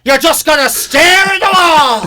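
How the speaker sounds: mock sarcastic. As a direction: needle the silent partner. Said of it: "it's like".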